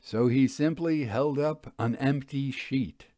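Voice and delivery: measured, unhurried storytelling read; story narration. A narrator's reading. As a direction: read it like a mystery novel, calm and even. Author reads story aloud.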